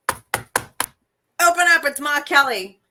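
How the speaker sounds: hammed-up movie dame demanding entry; Ma Kelly. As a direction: call through a door, in character. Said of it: "when Ma Kelly goes to talk".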